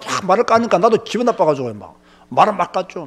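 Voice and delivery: ordinary talk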